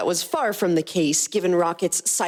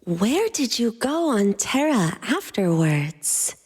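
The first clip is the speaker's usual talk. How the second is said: curious; 4 semitones higher, slower than usual. Acted. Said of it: "Mantis inquired".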